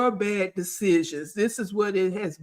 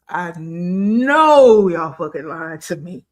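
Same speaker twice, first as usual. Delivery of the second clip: louder, pointed accusation; 3 semitones lower, 6 dB louder than usual. Shown as a demonstration. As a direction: lean into it harder, mock scolding. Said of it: "I'm getting ready to be mean".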